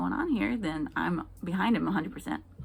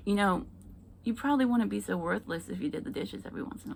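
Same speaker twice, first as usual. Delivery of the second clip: husband's dry reply; 2 semitones higher, faster than usual. Retold or imitated. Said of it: "he says".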